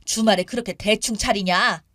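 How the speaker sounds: lightly voiced nagging mother-in-law; a hint of a disapproving elder; scolding mother-in-law. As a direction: find fault, dragging the final word. Mother-in-law scolding over meals.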